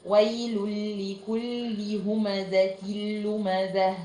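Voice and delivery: slow recitation "waylul-likulli humazatil-lumazah"; measured ويل لكل همزة لمزة, doubled l and no nasal hum; idgham without ghunna. Shown as a demonstration. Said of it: "يبقى الآية كلها ازاي".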